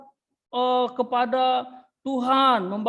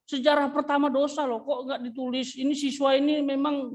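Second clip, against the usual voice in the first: mock-indignant devil, pitched up; offended devil; 2 semitones higher than usual. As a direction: play the insulted devil complaining. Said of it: "Iblis marah dia nanti iblis".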